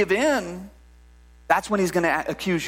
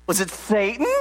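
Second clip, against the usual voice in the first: church lady impression. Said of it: "he'd be dressed up like the church lady and said".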